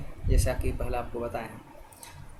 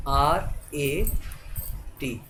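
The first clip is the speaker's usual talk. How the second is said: slow spelling; much slower than usual. Shown as a demonstration. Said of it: "आर पर ए की मात्रा".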